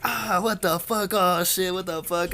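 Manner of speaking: retold yelp at the mess; grossed-out shock. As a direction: recoil in disgust and surprise. Friend throws up.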